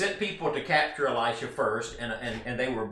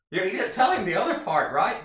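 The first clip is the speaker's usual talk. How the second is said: louder, higher, fast and laughing; laughing aside; 7 semitones higher, 5 dB louder, faster than usual. Real, not acted. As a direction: chuckle at the half-truth. Laughs at the servant's omission.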